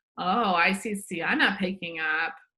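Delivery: slow, pointed, loaded delivery. Showing how a parent praises one child so the others hear: pointed praise. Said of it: "Do you hear how that sounds in my voice?".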